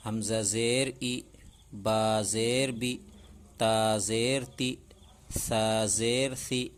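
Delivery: slow, measured reading of each letter with its zer; slow Urdu reading drill; slow drill recitation. Shown as a demonstration. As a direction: chant it out for children to repeat, one syllable at a time.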